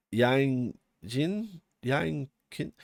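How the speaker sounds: Yang Jin stretched out, then questioned; halting attempts at Yang Jin and Yang Kin; unsure pronunciation. Real, not acted. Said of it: "I don't know how to say half of these".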